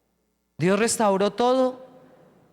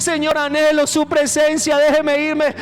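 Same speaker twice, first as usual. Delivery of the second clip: longing plea; 5 semitones higher, 4 dB louder than usual. Acted. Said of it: "uno quisiera irse con Él ya".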